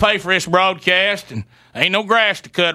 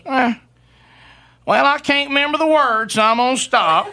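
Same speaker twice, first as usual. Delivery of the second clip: mock wife voice; 6 semitones higher than usual. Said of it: "all she goes".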